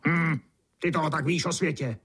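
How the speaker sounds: put-on high, sour old-beetle murmur; grumpy beetle grumbling. A narrator's reading. Old beetle scoffing at the newborn beetle, high and sour. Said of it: "zamumlal černý brouk".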